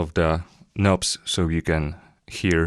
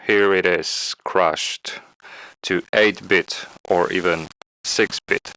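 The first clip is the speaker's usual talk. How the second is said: bitcrushed voice. Shown as a demonstration. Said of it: "let's crash my voice".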